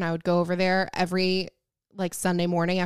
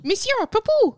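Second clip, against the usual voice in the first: mock French accent; 14 semitones higher, 4 dB louder than usual. Mock French name, high.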